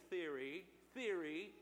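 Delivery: theory set apart and repeated for emphasis; stress on theory. Shown as a demonstration. Preacher doubting the Big Bang to his congregation, stressing theory. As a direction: lean on the word theory, repeated. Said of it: "emphasis on theory".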